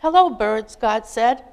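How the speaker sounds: put-on lively children's storybook read-aloud. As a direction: read it like a picture book at bedtime, bright and expressive. Reads children's story to congregation.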